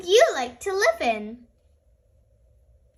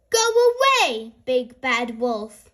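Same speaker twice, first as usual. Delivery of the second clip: brave shout; 4 semitones lower, 3 dB louder than usual. Acted. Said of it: "called bravely".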